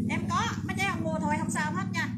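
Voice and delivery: loud, high-pitched insistence; insistent reassurance. Real, not acted. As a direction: raise the voice to assure buyers. Insisting to customers no purchase is fine.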